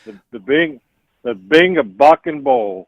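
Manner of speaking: a lightly done slow impression of a singer; a hint of the singer, slow and mumbled; impression of a singer. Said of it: "this was Elvis Presley".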